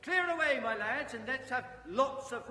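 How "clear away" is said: much louder, higher jolly shout; loud jovial call. Acted. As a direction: shout it out cheerfully. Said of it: "jovial voice".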